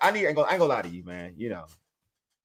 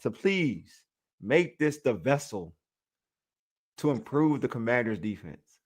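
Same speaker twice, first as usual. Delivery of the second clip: mock prayer. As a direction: pray over it like a half-joking preacher. Mock prayer over the defensive coach.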